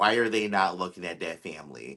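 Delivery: ordinary delivery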